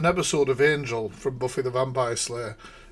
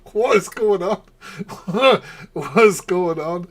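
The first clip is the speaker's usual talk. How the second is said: loud laughing cry of disbelief; cracking up, can't believe it; 7 semitones higher, 6 dB louder than usual. Real, not acted. Vlogger laughing loudly at a bizarre clip.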